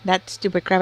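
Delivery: talking while eating; mouth full. Real, not acted. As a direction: chew and talk at once. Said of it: "I'm doing that right now while I'm eating".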